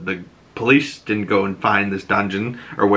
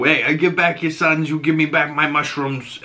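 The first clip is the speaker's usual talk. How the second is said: Penguin voice; 4 semitones higher than usual. Retold or imitated. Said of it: "Oz makes a deal".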